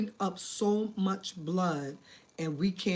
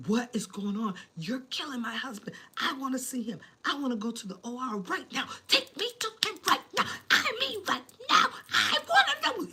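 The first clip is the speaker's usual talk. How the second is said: retold hysterical screaming; 8 semitones higher than usual. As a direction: replay the panic, climbing in pitch line by line. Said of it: "I just remember screaming".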